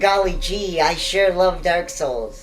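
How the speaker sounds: put-on wholesome 1950s kid. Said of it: "Cole is more of the".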